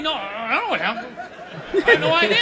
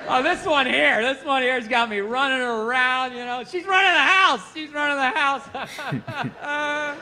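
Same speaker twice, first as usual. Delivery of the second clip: nerdy dad impression; 3 semitones higher, slower than usual. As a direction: imitate a dad playfully complaining. Nerdy dad chatting about kid.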